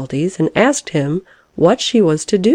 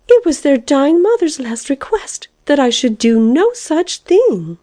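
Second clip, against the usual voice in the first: high-pitched, affronted protest; indignant; 10 semitones higher than usual. A narrator's reading. Caterpillar defending the dying mother's request, indignantly. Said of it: "said the caterpillar indignantly".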